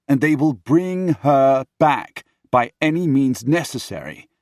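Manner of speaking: loud, high, argumentative; heated remonstrance. Acted. Henry gripping his brother's shoulders, heated remonstrance. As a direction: talk sense into him forcefully.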